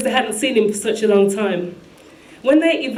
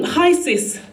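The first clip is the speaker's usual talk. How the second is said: higher, imitated smiling hello; big-smile greeting; 6 semitones higher than usual. Brother figure greeting his sis, retold big-smile hello. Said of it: "with a big smile".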